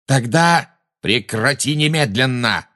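high, drawn-out angry command; barked order. A narrator's reading. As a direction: bark it, stretching every word. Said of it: "рявкнул на неё Люциус Малфой". (рявкнуть, приказывая)

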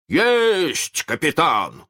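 высокий матросский крик; гаркни ответ на приказ капитана; заорал. A narrator's reading. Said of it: "заорал Неряха". (крик во всё горло)

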